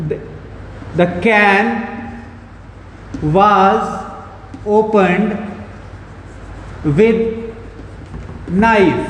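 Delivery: word by word with long pauses; measured, halting board-writing pace; slow dictation. Real, not acted. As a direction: spell it out slowly as if writing it down. Writes second example while speaking.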